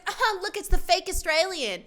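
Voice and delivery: high, loud jeering call; imitated taunting yell; mock scream. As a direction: call it out like a mean girl. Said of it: "She just screams out".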